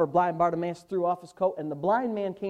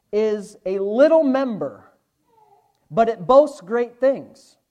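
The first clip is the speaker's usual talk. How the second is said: slow, weighty scripture delivery; preacher driving a verse home; emphatic preaching; 8 dB louder, slower than usual. Real, not acted. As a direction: stretch the key words and hit them hard.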